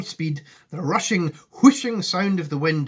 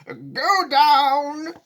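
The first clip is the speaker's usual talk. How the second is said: loud, high, stretched shout; yelled order; 11 semitones higher, 7 dB louder than usual. A narrator's reading. Grandpa demanding descent over the wind, loud yell. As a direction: bellow it over the noise. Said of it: "yelled Grandpa George".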